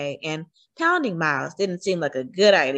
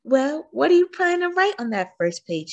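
grandma voice; 8 semitones higher than usual. A narrator's reading. Grandma asks a question.

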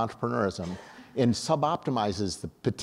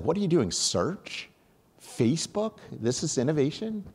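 imitating angry outburst; 7 semitones higher than usual. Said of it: "He was angry".

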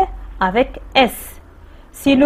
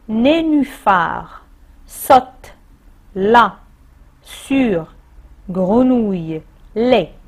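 each of "Nénuphar", "saute", "sur", "grenouille" read alone with pauses between; teacher reading the exercise words; reading out word cards; much slower than usual. Shown as a demonstration. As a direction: list the jumbled words one by one, slowly. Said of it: "Mets les mots en ordre".

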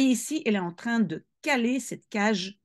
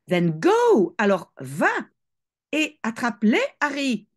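mother's hiss; 3 semitones higher, 4 dB louder than usual. Acted. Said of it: "sifflait la mère".

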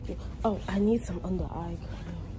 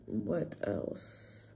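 whispered; 9 semitones lower, 6 dB quieter than usual. Real, not acted. Musing aloud, hushed.

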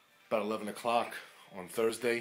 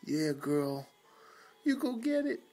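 higher, louder cheer for the dog; excited cheer; 8 semitones higher, 6 dB louder, slower than usual. Real, not acted. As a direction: cheer her on like a proud dad.

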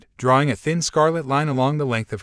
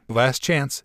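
rasp. Acted. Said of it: "he rasped".

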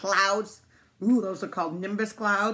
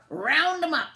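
high, loud farmer's command; loud herding call; 8 semitones higher, 5 dB louder, slower than usual. A narrator's reading. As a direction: holler an order to the sheepdog. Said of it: "the farmer called".

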